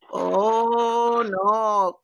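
drawn-out "oh" of dawning alarm, lightly acted; German tour guide. Tour guide realizing the tourist's mistake, imitated dismay. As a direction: imitate a guide stretching out a worried correction. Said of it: "I asked the tour guide".

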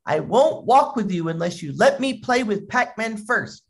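lightly acted bratty insistence; little boy. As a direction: imitate a child laying down terms. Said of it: "the little boy says".

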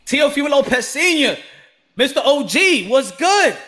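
high, loud hype greeting; hyped welcome. Real, not acted. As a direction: call the guest in like a champ. Hyped greeting of his guest.

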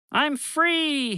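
high, bright cry of joy; cheering. Acted. Bobby bursts out of his prison, high cheering cry. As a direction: shout it out like a freed prisoner. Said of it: "he cheered".

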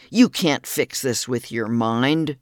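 slow, understated sarcasm; a touch of a doctor's scorn, drawn out; sarcastic. Retold or imitated. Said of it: "the doctor sarcastically said".

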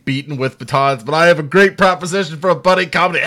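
fast, loud laughing pitch; laughing mock pitch. Loud laughing pitch of a buddy comedy. Imagined scene with batons.

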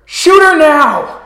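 high-pitched, urgent shouted order; Maxwell. Acted. Game master voices a character ordering a shot, urgent shout. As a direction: call out the command high and drawn out at the end. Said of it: "As you just hear Maxwell".

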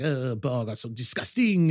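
a sneering fake French accent; snide handler sneering about the Borg in French accent; mock French accent. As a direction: play the snide pirate in a bad French accent. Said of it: "his accent's better than that".

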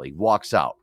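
ordinary talk

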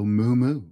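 a cow's moo, drawn out. Acted. Dad reading to his child, cow moo. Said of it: "He can go like a cow".

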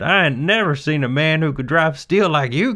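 loud, high delighted shout; foreman shouting over noise. Acted. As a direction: holler it over hammer noise. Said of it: "the foreman shouted".

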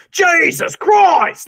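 slow, high exclamation in a mock British voice; imitating Lord Gideon Gray, slow and high. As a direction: draw it out like a pompous lord. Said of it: "just going".

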